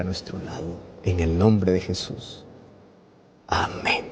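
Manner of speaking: closing prayer, low and devout; hushed prayer. Acted.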